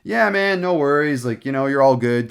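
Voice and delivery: mock breezy buddy talk; casual, no worries. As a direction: act out an easygoing, informal brush-off. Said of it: "I love being casual with stuff".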